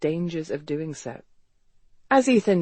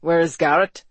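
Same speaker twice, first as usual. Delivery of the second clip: louder, hard demand; 5 dB louder than usual. A narrator's reading. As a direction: demand an answer forcefully. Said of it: "Ethan demanded".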